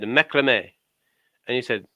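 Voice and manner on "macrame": macrame said the French way, stress on the last syllable; French pronunciation. Retold or imitated. A French person corrects him, macrame in French style. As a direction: mimic a French speaker saying macrame. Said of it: "And they said".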